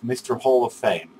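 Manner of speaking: Mister Hall of Fame said in full, word by word; corrected nickname pronunciation. Shown as a demonstration. Vlogger apologising to Brandon, careful correct pronunciation of Mister Hall of Fame. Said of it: "saying your name wrong, and, uh, now I'm".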